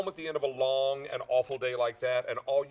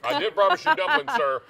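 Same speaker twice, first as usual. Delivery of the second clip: playful; 11 semitones higher, 8 dB louder than usual. Real, not acted. Teasing reply to hungry Craig.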